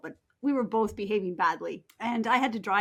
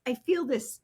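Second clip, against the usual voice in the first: retold rage; 3 semitones higher, 6 dB louder, slower than usual. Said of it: "I feel this rage".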